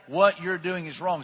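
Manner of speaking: slow, deliberate rebuke; measured, convinced confrontation; bold conviction. Retold or imitated. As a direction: say "What you're doing is wrong" slowly and firmly. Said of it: "he had boldness and conviction to say".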